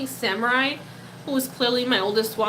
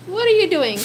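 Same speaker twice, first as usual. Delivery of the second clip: higher and louder, gushing at the pet; 7 semitones higher, 7 dB louder than usual. Real, not acted. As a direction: squeal it at the cute fish. Baby talk to pet.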